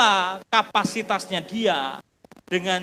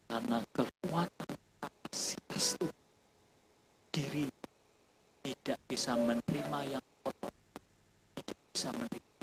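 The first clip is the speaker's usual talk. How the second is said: soft, much quieter, reverent telling over music; hushed storytelling; 4 semitones lower, 4 dB quieter than usual. Acted. Preacher tells the congregation of the weeping taxi driver, hushed and reverent. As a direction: draw the room in close and low.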